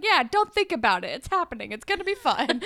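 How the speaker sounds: high, mock-breezy brush-off; unconvincing reassurance. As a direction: imitate someone brushing off doubts with a bad lie. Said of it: "Your lies are not convincing".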